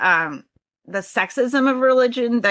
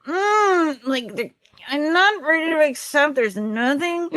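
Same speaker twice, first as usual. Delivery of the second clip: mock anguish; 6 semitones higher than usual. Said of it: "I was like".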